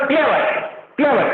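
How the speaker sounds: क्लेवर said in one unbroken go; in one flow. Shown as a demonstration. Teacher showing natural flow to class, क्लेवर in one breath. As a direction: run क्लेवर together as a single sound. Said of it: "एक ही सुर में बोल रहे हैं ना".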